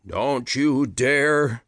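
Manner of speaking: slow menacing growl. Acted. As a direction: warn her off, dragged out. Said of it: "Peter growled".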